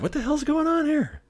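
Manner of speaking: bewildered high squeak of alarm; mock shocked. Shocked by second armed officer.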